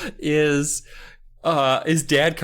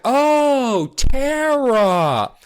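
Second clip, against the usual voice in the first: knowing mom; 10 semitones higher, 4 dB louder, much slower than usual. Retold or imitated.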